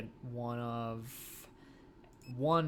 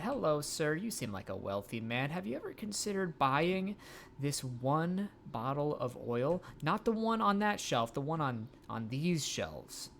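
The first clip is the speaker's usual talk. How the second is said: high, bright sales pitch voice; salesperson voice; 3 semitones higher than usual. Acted. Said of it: "time for cold calls".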